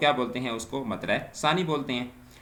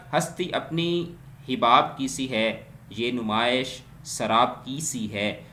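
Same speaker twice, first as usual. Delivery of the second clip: slow, drawn-out verse reading; poem recitation; slower than usual. Acted. Teacher reciting a couplet for students, slow. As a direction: let each half of the couplet unfold slowly.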